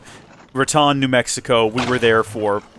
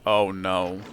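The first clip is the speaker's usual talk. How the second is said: dismayed; 8 semitones lower, 7 dB quieter than usual. Retold or imitated. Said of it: "And I'm like".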